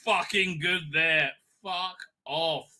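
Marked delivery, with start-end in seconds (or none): 0.0-1.3 louder mocking repeat of his plea; mocking echo. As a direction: throw his words back at him.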